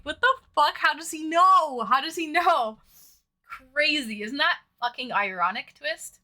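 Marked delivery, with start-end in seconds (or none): 0.0-2.8 louder mock panic, slowing on "know"; replaying the alarmed disbelief; retold panic. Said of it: "I was like".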